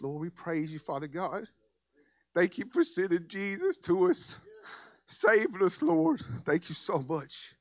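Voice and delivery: rising, pleading prayer voice; fervent prayer. Acted. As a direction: pray it out with growing fervour. Leads a closing prayer.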